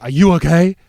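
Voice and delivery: mildly worried voice of the driver; concerned driver. Retold or imitated. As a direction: call out to the cyclist with concern. Driver asks after crash.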